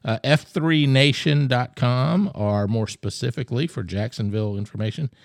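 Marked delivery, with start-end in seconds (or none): 0.2-2.3 F three nation dot com, each part slow and loud; slow promo read. Shown as a demonstration. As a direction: spell out the web address slowly. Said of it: "plugging the website".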